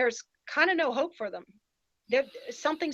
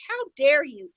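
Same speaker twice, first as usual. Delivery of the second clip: loud indignant outburst; mock outrage at the videos; 6 dB louder than usual. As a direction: fling it out, outraged. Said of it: "I was so pissed off".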